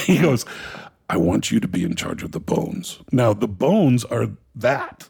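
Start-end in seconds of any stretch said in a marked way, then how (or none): 1.1-3.0 a light Danish accent imitation. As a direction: hand over the job in a Danish accent. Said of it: "He's got this Danish accent".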